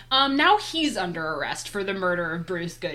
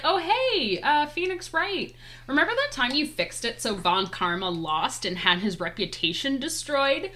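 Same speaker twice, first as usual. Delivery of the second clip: mock smug greeting; 6 semitones higher than usual. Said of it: "and he's like".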